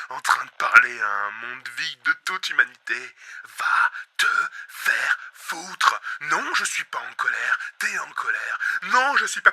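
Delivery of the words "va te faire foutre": very slow, choked; tearful curse. Acted. Host cursing himself, close to tears. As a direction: let the voice crack. Breaking down.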